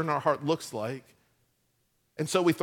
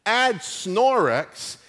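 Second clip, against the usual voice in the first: mock infomercial. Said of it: "Like, watch this".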